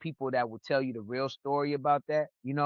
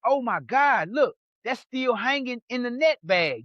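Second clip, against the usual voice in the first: surprised; 8 semitones higher than usual. Retold or imitated. Self quote on finding the moonshine.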